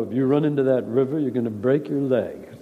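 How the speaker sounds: lightly voiced low askance warning; a hint of Mitchum's sideways disbelief; askance Robert Mitchum. Mitchum warning Marilyn Monroe, lightly voiced askance. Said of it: "Robert Mitchum to Marilyn Monroe".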